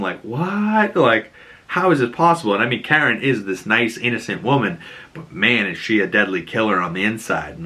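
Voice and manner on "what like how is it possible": higher, baffled mock question; dumbfounded. Foggy gapes at Karen's confession, higher and baffled. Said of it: "he looks at her just so dumb".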